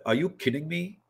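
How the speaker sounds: incredulous, rising on "you"; blunt disbelief. Retold or imitated. To students pitching an idea, a blunt scoffing "are you kidding me". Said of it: "I didn't say it that way".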